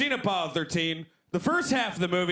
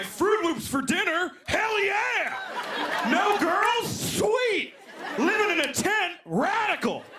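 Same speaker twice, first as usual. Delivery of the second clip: put-on kid excitement; 11 semitones higher than usual. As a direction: cheer like a thrilled kid. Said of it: "I'm like".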